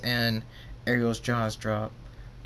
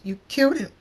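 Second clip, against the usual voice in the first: high, loud outburst; anguished accusation; 8 dB louder, faster than usual. Acted. Fluttershy accuses Draconix through tears, anguished. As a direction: cry it out accusingly. Tearful accusation after a death.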